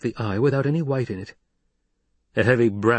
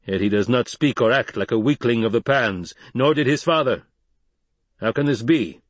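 lightly voiced chief, slightly raised; firm tribal leader, Stilgar; 4 semitones higher, 4 dB louder than usual. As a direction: hold your ground, then weigh up the boy.

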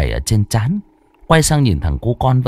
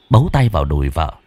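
plain reading voice

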